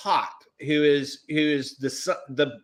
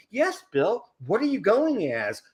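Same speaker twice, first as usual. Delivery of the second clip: teasing needling; 4 semitones higher than usual. Retold or imitated. Blanca giving Bill a hard time, teasing needling. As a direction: imitate a friend ribbing someone, pitched up. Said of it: "give me a hard time".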